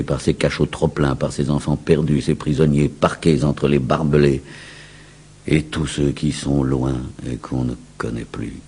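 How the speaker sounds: usual speaking voice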